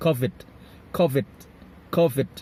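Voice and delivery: "covid" with the stress on CO; stress on first syllable. Shown as a demonstration. Teacher modelling covid for students to repeat, stress on CO. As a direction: punch the first syllable of "covid", letting the second fall away. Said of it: "มันจะมีเสียง stress ที่ตัวแรกครับ".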